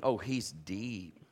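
low, slow, drawn-out awe; with feeling. Shown as a demonstration. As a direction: say it with deep feeling, stretched out. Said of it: "you gotta say it with feeling".

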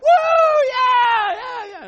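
high whooping cheer; cheering shout. Retold or imitated. Dad cheering his daughter across the finish line. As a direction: whoop it like your kid just won. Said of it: "I am like".

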